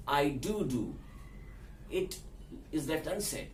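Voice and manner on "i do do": "I do do" with the first "do" emphasized; stress on first "do". Shown as a demonstration. Friend confirms doing what was asked, stressing "do". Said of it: "I want to stress the fact".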